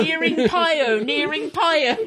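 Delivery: nearing Pio, the word's halves swapped, ending said first; backwards speech. Shown as a demonstration. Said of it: "You should be saying nearing Pio".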